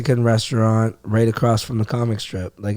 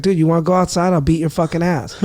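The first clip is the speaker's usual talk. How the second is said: higher, half-hearted mock threat; retold challenge; 4 semitones higher, faster than usual. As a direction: replay daring him to step outside. Retold bar fight challenge.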